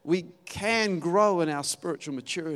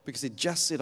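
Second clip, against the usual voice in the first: usual speaking voice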